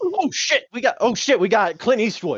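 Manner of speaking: high-pitched, panicked outcry. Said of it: "just went".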